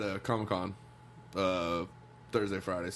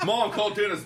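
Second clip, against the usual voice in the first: mock whiny kid; 11 semitones higher, 7 dB louder than usual. Mock whiny request to mom.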